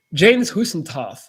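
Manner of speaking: put-on name said slowly in a light German accent; a mock German accent, slow. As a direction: Namen mit leichtem deutschem Akzent. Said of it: "saying your name in a German accent".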